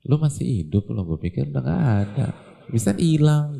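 quick, cheeky put-down, rising at the end; mock rude greeting. We greet the returning worker with a sneering joke. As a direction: tease him as if he had vanished. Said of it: "Kita bilang".

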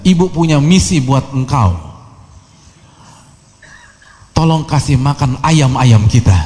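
mother's order in a mild mock yell; retold motherly yell. Mother gives her son a chore in public, mock yell. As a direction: raise the pitch to imitate a mother calling, no real volume. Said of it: "ibunya teriak".

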